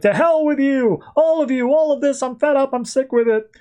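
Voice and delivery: angry yelling. Retold or imitated. Pissed-off hero yells at his wrecked bar, hammed-up angry yell. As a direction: rant it out, fed up with everything. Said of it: "He just starts yelling at the bar".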